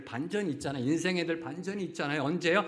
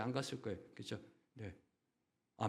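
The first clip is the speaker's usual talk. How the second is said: ordinary talk, nothing marked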